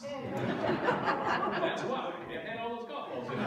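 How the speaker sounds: slow words through real laughter; laughing. Real, not acted. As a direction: laugh out the punchline slowly and loudly. Laughing at his own punchline.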